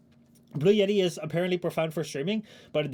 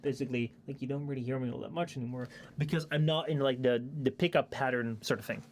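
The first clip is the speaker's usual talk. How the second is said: off-mic demo. Shown as a demonstration. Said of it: "you'll probably hear me something like this".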